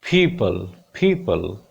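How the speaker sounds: people with aspirated p; slow teacher demo of people; model pronunciation. Shown as a demonstration. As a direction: say people with a puffed p. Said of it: "This is".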